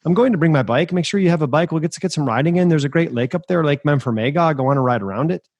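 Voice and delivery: put-on Irish accent. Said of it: "he had this Irish accent".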